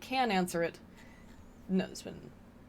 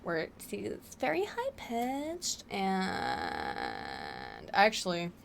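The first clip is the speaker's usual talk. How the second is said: mock high voice; 5 dB quieter, much slower than usual. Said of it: "she has a very specific way of speaking".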